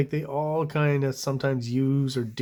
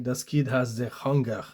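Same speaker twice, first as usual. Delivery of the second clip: put-on a touch of German accent, half-joking. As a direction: read the caption in a hint of German accent. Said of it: "I assume that's the accent I'm supposed to do".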